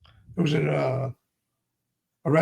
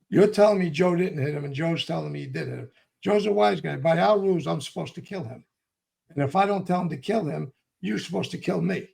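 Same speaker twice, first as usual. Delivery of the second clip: retold angry confrontation; mad; 3 semitones higher than usual. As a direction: lay down the rules, hot and hard. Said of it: "What are you getting mad at me for?".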